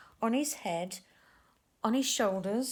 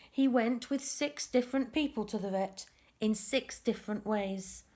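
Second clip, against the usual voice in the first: lively storybook narration for little ones; reading to children. A narrator's reading. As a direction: tell the tale to a group of kids. Reads picture book to children.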